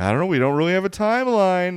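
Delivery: coy delivery.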